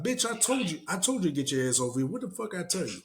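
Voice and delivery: bossing her like a pimp; mock pimp Obama. Obama ordering Kamala over, hammed-up pimp voice. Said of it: "Obama turns into fucking a pimp".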